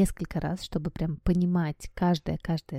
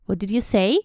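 snapping aunt; 2 semitones higher, 4 dB louder than usual. Acted. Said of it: "his aunt snapped".

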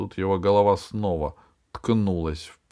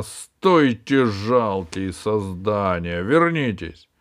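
booming arrogant alien overlord; 4 dB louder, slower than usual. Acted. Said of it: "громовой голос Джина".

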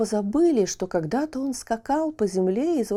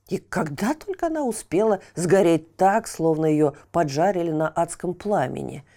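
annoyed watchman; 3 semitones lower than usual. Acted. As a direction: curse the burnt bird. Watchman curses burnt chick.

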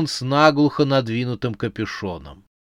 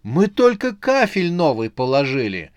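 despairing cry; 4 semitones higher, 4 dB louder than usual. A narrator's reading. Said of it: "в отчаянии воскликнула Оксана".

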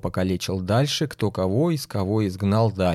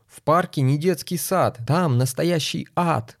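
higher urgent shout while running; 5 semitones higher than usual. Acted. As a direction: yell a warning while running. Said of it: "стал кричать мэру".

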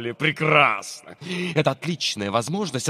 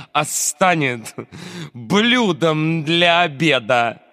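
rhyming recital. Acted. Teacher recites rhyming lesson.

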